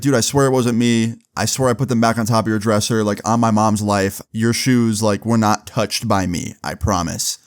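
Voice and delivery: mild imitation of a friend's earnest denial; retold sincere swearing. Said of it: "he sounded very sincere".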